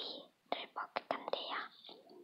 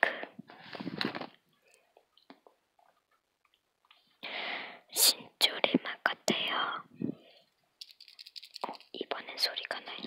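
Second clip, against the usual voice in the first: crunching candy between words; eating candy while talking. Real, not acted. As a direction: mouth partly full. Seen 1: Hand holds candy at lips throughout; mouth partly cropped at top.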